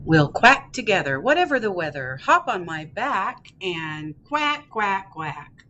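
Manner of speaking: encouraging lilt with a punched opening; cheering-up picture-book reading. Acted. Dad duck cheering up sad duckling, encouraging read-aloud. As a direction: lift the mood for a little listener.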